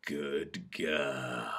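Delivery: soft, low praise; hushed, intimate approval; low murmur. A narrator's reading. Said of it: "he murmurs".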